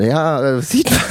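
high mock deadpan friend. Friend's dry reply retold.

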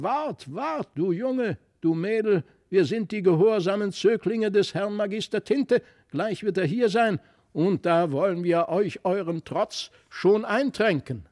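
high, croaky threat from little dolls; croaking goblin figures. A narrator's reading. Wooden hunter and harp-man croaking at the children. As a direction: croak it out like wicked toys. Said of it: "Dazu krächzten beide".

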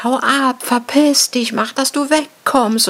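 retold scream. Wife yelling at the stalker to drive him off, mock yell. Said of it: "hab gebrüllt".

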